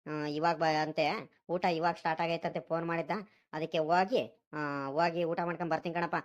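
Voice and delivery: low-pitched son explaining himself; lightly voiced grown son. Son tells his father about the village fair invitation, lightly voiced, low.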